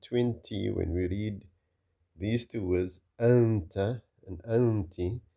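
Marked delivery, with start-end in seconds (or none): 3.2-5.2 long nasal n before the t in "anta" and "anti"; ikhfa. Shown as a demonstration. Teacher shows sound coming through the nose, ikhfa. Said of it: "you can also hear the".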